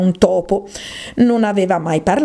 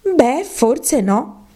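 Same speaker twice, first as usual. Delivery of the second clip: slow, higher, placating tone; hesitant peacemaking, pitched up; conciliatory; 7 semitones higher, much slower than usual. Acted. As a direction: concede gently, drawing the words out. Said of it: "disse Alice in tono conciliante".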